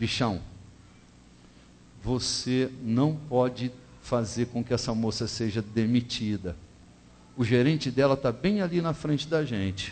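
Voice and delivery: soft, hushed, half-whispered stage whisper. Retelling words spoken to the cashier in the market: imitating speaking very quietly. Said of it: "E falei bem baixinho assim".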